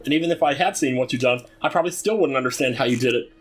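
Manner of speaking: put-on high, worried girl's voice; high-pitched girl in distress; voicing the farm girl. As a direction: read her lines as a fretful young farm girl.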